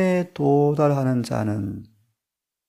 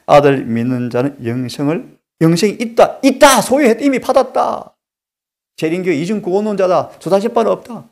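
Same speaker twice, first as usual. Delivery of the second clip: mocking critic; 4 semitones higher, 5 dB louder than usual. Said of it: "어느 유명한 분은".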